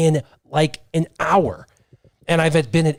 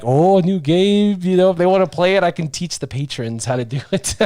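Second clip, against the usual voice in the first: mock innocent; 3 semitones higher than usual. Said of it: "I'm like".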